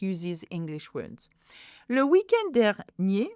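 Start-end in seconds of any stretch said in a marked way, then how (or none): 1.9-3.3 "Le weekend dernier" in higher, careful chunks; careful pronunciation demo. Shown as a demonstration. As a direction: model "dernier" ending on a clear é. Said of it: "again, it's pronounced with a".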